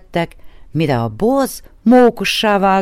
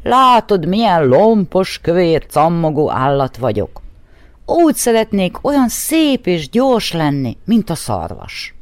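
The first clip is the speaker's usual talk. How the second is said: lightly voiced bear, lifted and louder; a hint of a grumbling bear; 3 dB louder than usual. The bear grumbles to the horse about his bulk. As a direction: complain like a clumsy bear. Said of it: "dörmögte a medve".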